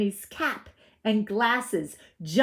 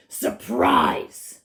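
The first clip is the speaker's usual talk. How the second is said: 1 wolf cries out; 8 dB louder than usual. A narrator's reading. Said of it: "cried the wolf".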